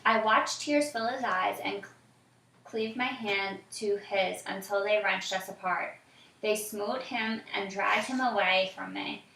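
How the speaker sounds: put-on reading aloud to a child, evenly; story narration. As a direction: tell the story calmly.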